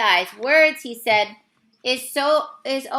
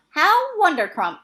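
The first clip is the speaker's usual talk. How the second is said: high, joyful exclamation; beaming giant, overjoyed; delighted cry; 5 semitones higher, 4 dB louder than usual. Acted. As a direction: burst out with delight. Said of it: "cried the B F G".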